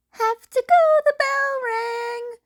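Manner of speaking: put-on high, loud boyish call, slowing; a high, loud boyish goodbye; hurried goodbye. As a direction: call it out like a kid in a rush. Leaving chat for class.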